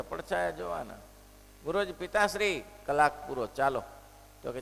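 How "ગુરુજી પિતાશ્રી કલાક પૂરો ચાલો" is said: son calls out a little louder, eager to go; impatient son. Retold or imitated. Bored son urges his father, mildly louder call. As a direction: hurry the father along, mildly pushy.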